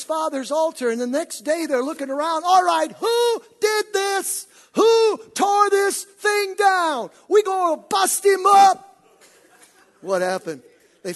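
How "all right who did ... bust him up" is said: slow, high, loud furious demand; angry mob. Acted. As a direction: shout them down in outrage. Townsmen angrily demand culprit.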